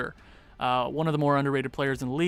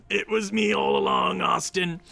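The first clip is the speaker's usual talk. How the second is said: meme voice. Pretend. Acting out the meme.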